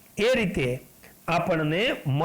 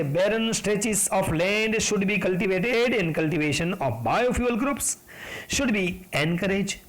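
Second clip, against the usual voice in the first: slow text reading; much slower than usual. Acted. Reads the textbook sentence aloud.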